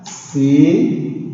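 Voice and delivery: "Ciência" with a long rising CI, pause, then ÊN-cia; syllable by syllable. Shown as a demonstration. Teacher writing the word out for pupils, "Ciência" said syllable by syllable. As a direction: draw out "Ciência" in separate chunks. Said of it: "Vamos agora identificar".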